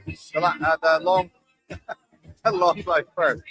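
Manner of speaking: stumbling, restarting, then laughing it off; real fumble with a laugh midway; tongue-tied. Real, not acted. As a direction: trip over the words and chuckle at yourself. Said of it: "I'm getting all tongue-tied".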